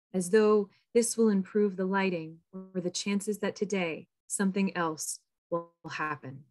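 measured poetry reading with pauses between phrases; poem reading. Acted. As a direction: read your poem aloud, letting each line fall at its end. Reads own poem aloud.

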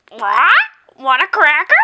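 lightly voiced parrot squawk; a hint of a talking parrot. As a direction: ask for a cracker like a pet parrot. Parrot imitation, guessed parrot.

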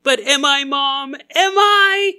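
high plea building to a loud peak; hammed-up kid desperately questioning Mom; mock existential crisis. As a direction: cry out the last question, very high. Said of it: "They're having an existential crisis".

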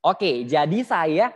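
slow, drawn-out chest voice; suara dada. Shown as a demonstration. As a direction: speak straight from the humming chest, slowly. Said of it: "Langsung ngomong nih kayak". (suara dada, pelan-pelan dan tegas)

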